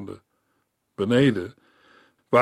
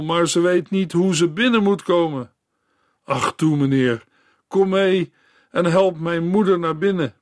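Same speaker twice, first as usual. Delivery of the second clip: poor girl begging, voiced higher; urgent plea of a frightened child; a girl begging the doctor to come; pleading girl; 4 semitones higher than usual. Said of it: "en smeekte".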